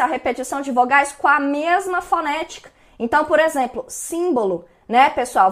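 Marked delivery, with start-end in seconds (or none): 3.9-4.6 "símbolo" with a clear, stressed I in the first syllable; sharp I vowel. Shown as a demonstration. Teacher showing students an assonance example, sharp stressed I. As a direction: draw out the sharp I opening "símbolo". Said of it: "este I bem agudo ainda".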